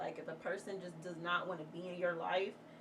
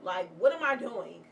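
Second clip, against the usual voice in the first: frustrated outburst; 6 dB louder than usual. Retold or imitated. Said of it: "wondering, like".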